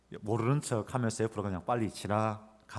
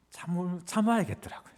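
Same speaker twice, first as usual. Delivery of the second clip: strained emphasis; 7 semitones higher than usual. Real, not acted. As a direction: force the words out, holding back. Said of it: "참아야겠더라고요 두 번". (높게 힘주어 말하는 "참아야겠더라고요")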